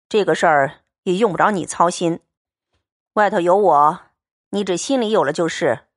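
steady, cool young swordsman, lightly voiced; calm and blunt, a man of few words; Liu Xianglian's voice. Xianglian calmly tells Baoyu the money is set aside, steady and cool.

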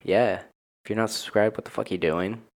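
low register all the way through; deep voice. Real, not acted. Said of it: "Why is my voice so deep?".

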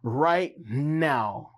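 slow, earnest prayer voice. Acted. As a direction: pray it slowly and earnestly. Prays over viewers.

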